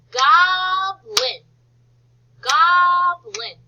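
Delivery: GOBLIN high and loud, split GOB-LIN; teacher stretching GOBLIN, the GOB held long; syllable by syllable. Shown as a demonstration. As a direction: call out GOBLIN slowly in two clear syllables. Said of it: "what goes in the first syllable?".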